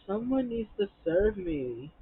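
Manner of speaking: audacious demand, imitated with drawn-out words; mock entitled demand. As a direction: stretch it out like a diva's order. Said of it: "had the nerve and the audacity".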